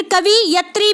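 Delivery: "कवि यत्री" with a short i after व, then "yatri"; wrong form "कवि यत्री", split as kavi plus yatri; mispronounced word. Shown as a demonstration. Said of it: "गलत है".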